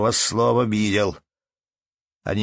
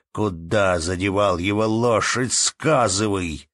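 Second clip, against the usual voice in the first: angry accusation; 3 semitones higher, 4 dB louder than usual. Acted. Angry man accusing innkeeper.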